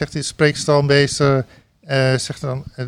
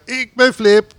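ringmaster call; 6 semitones higher, 4 dB louder, slower than usual. Retold or imitated.

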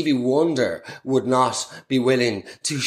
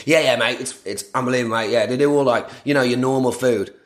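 imitating Chezza; 2 semitones lower, faster than usual. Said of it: "Chezza reply".

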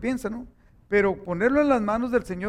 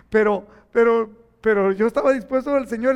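louder, driving the point home; preaching emphasis; 3 semitones higher, 7 dB louder than usual. Real, not acted. Preacher to congregation, loud emphatic insistence. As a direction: push it out to the congregation. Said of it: "preaching emphasis".

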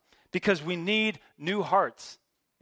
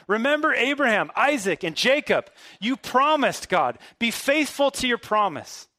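higher, pressing plea to God; urgent plea; 5 semitones higher, 3 dB louder than usual. Retold or imitated. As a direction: beg him to keep his word. Moses pleading, rising urgency.

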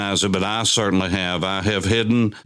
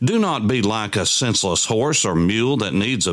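scripture reading. Acted. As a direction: read the psalm aloud, drawing out the line endings. Reads psalm aloud.

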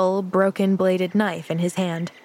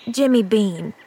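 ungracious grunt; 3 dB louder than usual. Acted. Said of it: "he grunted with ungracious indifference".

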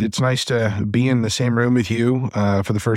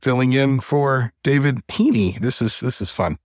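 crackling mic; 3 semitones higher than usual. Real, not acted. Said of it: "your mic is crackling".

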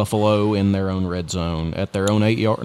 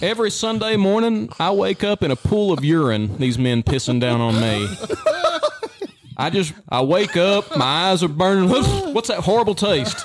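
mock horror; 7 semitones higher than usual. Mock horror waking story.

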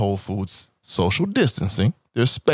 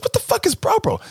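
high, baffled wife; shrill-free squeaky puzzlement, way higher; confused wife. Retold or imitated.

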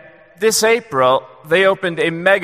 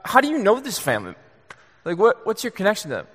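quick, softer, higher questioning; curious pastor; 4 semitones higher, 5 dB quieter, faster than usual. Retold or imitated. A lightly voiced pastor asking the man how he knows them. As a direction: ask it lightly and fast, puzzled. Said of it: "she goes".

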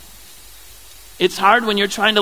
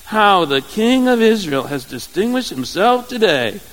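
sarcastic; 2 semitones higher than usual. Retold or imitated. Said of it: "you can see how sarcastic she's gonna be".

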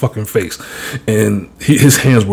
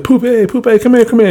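high mock call of a nickname; imitating dad calling his cousin playfully; 12 semitones higher than usual. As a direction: call him over teasingly, pitched up. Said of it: "he's like".

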